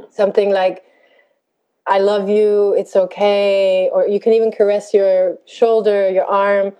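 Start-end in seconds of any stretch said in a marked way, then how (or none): 1.9-3.9 slowly, tenderly reassuring; gentle reassurance. Shown as a demonstration. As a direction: soothe yourself like a parent would. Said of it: "What would you say to a child".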